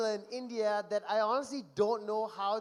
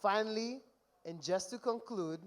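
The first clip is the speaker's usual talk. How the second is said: earnest, heartfelt and gentle; sincere tribute. Real, not acted. Best man turning sincere to the groom, heartfelt. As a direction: let the jokes drop and speak from the heart. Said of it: "I'm gonna get really emotional now".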